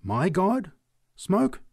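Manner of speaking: scandalized preacher; indignant cry. A narrator's reading. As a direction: recoil at the sacrilege. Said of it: "she cried".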